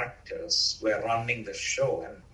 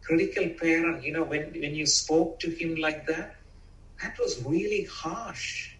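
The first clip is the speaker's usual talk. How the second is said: loving parent; 4 semitones higher than usual. Retold or imitated. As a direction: tell him kindly how it hurt. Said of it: "the inner loving parent can come and say".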